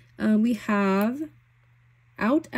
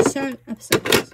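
higher, louder, slower gush; excited; 5 semitones higher, 6 dB louder than usual. Real, not acted. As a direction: lean into the obsession. Repeats phrase with more force.

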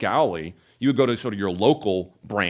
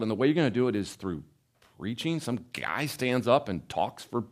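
higher-pitched, disbelieving challenge; incredulous skeptic; 3 semitones higher than usual. Acted. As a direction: question it like a doubting skeptic. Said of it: "imagine a skeptic looking at, at that and saying".

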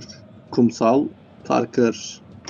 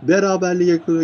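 excited goal call; 6 semitones higher, 3 dB louder than usual. Real, not acted. Commentator announces the equaliser to co-casters, excited goal call.

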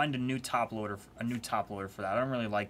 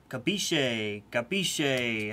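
Italian pronunciation try; much slower than usual. Acted. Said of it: "How do you say it?".

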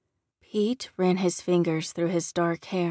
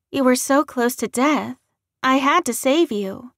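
high, louder, urgent woman's voice; earnest redhead; 7 semitones higher, 6 dB louder than usual. A narrator's reading. Redhead to the man she saved, urgently justifying. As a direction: plead the case with pitch raised. Redhead defends saving him.

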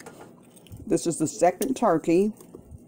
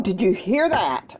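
alarmed question; 4 semitones higher than usual. Real, not acted. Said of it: "I'm gonna be real quiet".

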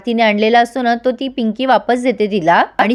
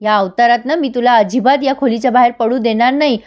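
retold anger. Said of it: "आता मात्र सत्या चिडतो".

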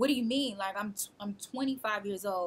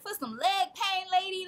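mild mock disbelief; 11 semitones higher than usual. Disbelief at being kept in hospital.

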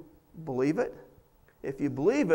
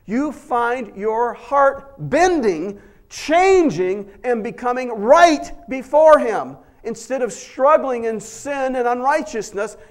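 louder, higher, stretched-out preaching; preaching at full force; 5 semitones higher, 7 dB louder, slower than usual. Acted. Pastor urging the congregation toward change, preaching at full force. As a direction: build to a fervent pulpit crescendo.

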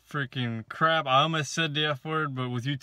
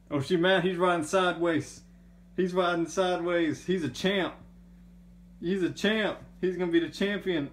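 higher, lively play-by-play; excited commentary; 4 semitones higher than usual. Real, not acted. Owner cheering the toy riding the cat, excited. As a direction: cheer the rider on, pitched up.

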